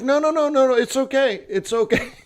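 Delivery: high, laughing it's okay; mock calm friend; amused brush-off. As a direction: soothe her off while walking away. Friend calmly refusing while leaving.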